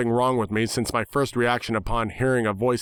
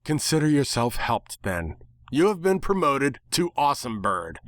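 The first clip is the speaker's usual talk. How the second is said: sarcastic sass; 4 semitones higher than usual. Acted. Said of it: "she sassed me with sarcasm".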